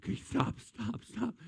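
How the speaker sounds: breathless near-whisper pleading; begging mid-laugh. Retold or imitated. Laughing too hard, begging friends to stop, breathless. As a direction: gasp it out, too weak from laughing. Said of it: "It's like".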